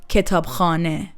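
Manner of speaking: kitab KHANE, weight moved to the second part; "kitab khane" stressed late. Shown as a demonstration. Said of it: "stress moves toward the khane part".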